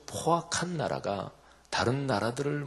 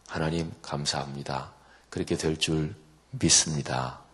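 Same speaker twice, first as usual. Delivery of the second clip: grateful prayer; 4 semitones lower than usual. Retold or imitated. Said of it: "이렇게 기도하는 거죠".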